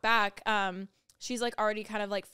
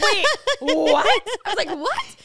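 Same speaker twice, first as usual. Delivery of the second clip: much higher, louder laughing wait what; shocked disbelief; 10 semitones higher, 13 dB louder, slower than usual. Retold or imitated. Hearing this happens a lot, a high shocked laugh. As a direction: gasp in disbelief.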